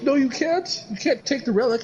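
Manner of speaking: high, put-on panicky objection; mock pleading protest. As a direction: imitate believers begging someone to stop. Retold religious people protesting.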